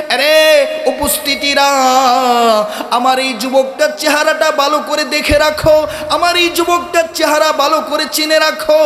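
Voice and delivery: calling to the crowd. Acted. Yusuf calls on those present to remember the youth, calling out. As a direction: proclaim it to the gathering. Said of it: "উপস্থিত মানুষদেরকে ডাক দিয়ে বলছেন".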